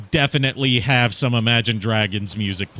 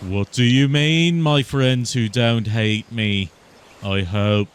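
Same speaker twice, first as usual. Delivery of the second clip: impression of a band; slower than usual. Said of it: "Dubas Goobas's Beatles are like".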